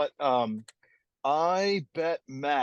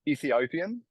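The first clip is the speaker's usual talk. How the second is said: Ethiopian drawn out in an Australian accent; 3 semitones higher, slower than usual. Shown as a demonstration. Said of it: "words that I only say in an Australian accent".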